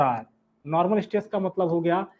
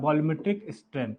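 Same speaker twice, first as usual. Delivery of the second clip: very slow, each word spaced for note-taking; dictating slowly word by word; slow dictation; 4 semitones lower, 6 dB quieter, much slower than usual. Real, not acted. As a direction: spell it out slowly for students to write. Teacher dictating formula for notes.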